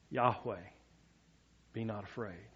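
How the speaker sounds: calm quiet Jesus. Retold or imitated. Jesus calmly reassuring frightened disciples in the storm, softly. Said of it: "I don't believe that Jesus was screaming".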